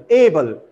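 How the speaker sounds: "able" said A-ble, falling away; stress on first syllable. Shown as a demonstration. Teacher restating correct able, stress on first syllable. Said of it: "stress falls on the first syllable".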